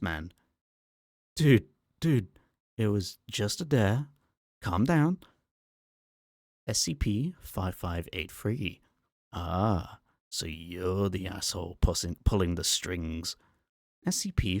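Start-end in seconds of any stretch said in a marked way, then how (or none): 1.4-4.1 much higher and louder, panicked; a scared drunk begging to be let off; a frightened man frantically backpedaling; panicked pleading. Acted. Terrified man pleads with monster. 4.6-5.2 much higher and louder, begging; Calm down squealed in panic; a frightened man pleading with the monster to calm down; panicked plea. Acted. 9.3-13.4 put-on Scottish accent. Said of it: "now speaking in a male Scottish accent".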